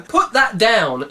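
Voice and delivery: high, loud, slow scream; panicked shrieking order. Acted. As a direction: scream at him to drop it. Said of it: "screamed a young woman".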